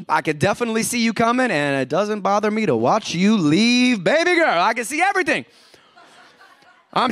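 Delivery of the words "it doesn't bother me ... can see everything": flirty admirer. Acted. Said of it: "when you were dating".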